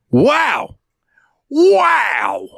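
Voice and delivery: high, slow, scandalized falsetto; mock outraged lady. Cashier mimics a lady complaining to the line in a high falsetto. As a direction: gasp it like a shocked old lady. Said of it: "I hear this lady".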